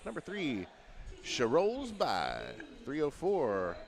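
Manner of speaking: punchy lineup call, each name hit hard; arena announcer. Acted. Announcer calling the visiting lineup to the crowd, punchy arena call. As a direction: announce every skater like they're walking out.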